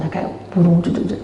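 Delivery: ordinary talk, nothing marked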